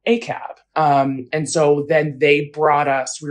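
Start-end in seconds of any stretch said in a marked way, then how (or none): 0.1-0.6 retold scream. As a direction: recall the protest scream without full volume.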